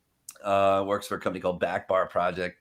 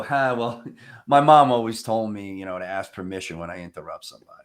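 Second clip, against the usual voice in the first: chuckling reply; 2 semitones lower than usual. Retold or imitated. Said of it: "I chuckle and then I go".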